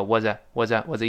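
"was a" run together very lightly; light linked weak form. Shown as a demonstration. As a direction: glide quickly over "was a" as one unit. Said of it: "非常轻轻的一带过". ("was a"轻轻一带而过)

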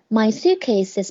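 suitcase is run together as suitcay-siz; linked suitcase is. Shown as a demonstration. Teacher pointing out the link in suitcase is. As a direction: let the s of suitcase slide into is. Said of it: "is连读了".

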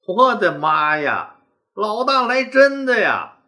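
slow, stunned gasp of fright. Acted. Frightened men realize their leader means it, slow and stunned. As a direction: let the shock sink in slowly. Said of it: "都吓傻了".

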